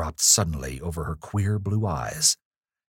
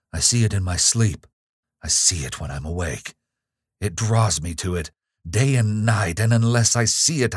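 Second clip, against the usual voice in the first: desperate outburst; 3 semitones higher, 4 dB louder than usual. Acted. Gabriel's desperate outburst to Evelyn.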